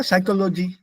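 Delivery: psychology as evenly weighted psycho-lo-jee; Indian mispronunciation. Shown as a demonstration. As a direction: demonstrate psychology with regional Indian rhythm. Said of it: "that mispronunciation helps us identify".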